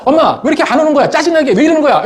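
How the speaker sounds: high, laughing mock complaint at mom; hammed-up whiny teen; bratty whine. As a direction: play the spoiled kid, half laughing. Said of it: "이러지 말자".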